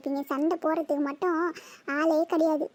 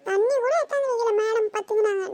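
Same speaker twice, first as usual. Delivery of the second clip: higher, crying protest; tearful complaint; 4 semitones higher than usual. Acted. Sister protesting tearfully to her mother about water. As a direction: sob out the complaint.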